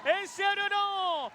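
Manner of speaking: excited goal call. Real, not acted. Free kick goes in.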